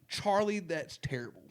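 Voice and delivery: high, loud mock broadcaster line; imitating the announcer. Quoting the radio reporter to his friends, high mock wail. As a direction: squeal it like the old reporter. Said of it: "he says literally".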